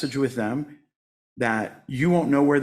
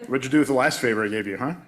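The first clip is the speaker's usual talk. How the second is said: quick, nagging mock parent, a bit louder; passive-aggressive parent; 4 dB louder, faster than usual. Spirit guides scolding him like a passive-aggressive parent, mock nagging. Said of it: "Some horrible passive-aggressive parent".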